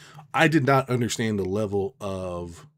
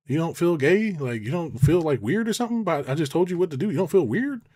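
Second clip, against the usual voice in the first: mocking quote; 7 semitones higher, 3 dB louder than usual. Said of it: "It's like".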